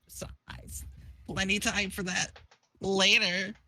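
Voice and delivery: faint whispered start, then halting speech; dying troll finding some voice; Vriska dying. Acted. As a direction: begin in a whisper, pause between phrases. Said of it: "I need to do a dying Vriska voice".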